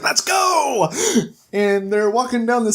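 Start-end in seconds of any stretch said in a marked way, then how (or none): 0.0-0.9 high, stretched-out charge call; mock battle cry. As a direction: imitate a leader calling the charge, without real volume. Snow with giant sword, rallying.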